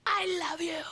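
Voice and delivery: breathy whisper instead of a scream; whispered I love you. Retold or imitated. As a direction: whisper it to suggest the roar. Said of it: "fifty thousand people screaming".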